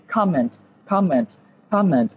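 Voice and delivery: comment said three times, each with clear stress on the first syllable; repeated drill pronunciation. Shown as a demonstration. Teacher repeating comment so students memorise it, steady drill. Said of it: "Đọc đi đọc lại".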